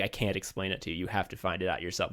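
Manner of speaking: put-on quiet, hushed old master. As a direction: murmur it like a cryptic teacher.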